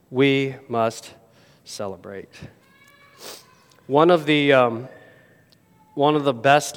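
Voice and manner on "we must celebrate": much softer, lower, dropping away; hushed. Shown as a demonstration. Preacher repeats the call to the congregation, hushed. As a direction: let it fall to a hush. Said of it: "repeats the line, first loud then hushed".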